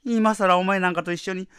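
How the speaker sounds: fast, heated retort; rapid angry retort. Acted. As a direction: rattle it off in anger. Wife refuses, building.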